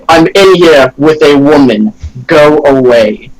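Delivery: slow, cool and unbothered; very coolly. Acted. Impersonating the boss to guards, slow and very cool. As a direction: brush them off slowly. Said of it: "I say very coolly".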